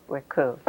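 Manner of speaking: Ricou as rih-KOO, with a falling end; name pronunciation. Shown as a demonstration. Interviewer repeating the guest's name his way, Ricou as rih-KOO. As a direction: say Ricou as short "rih" plus long "koo". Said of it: "we should pronounce it that way".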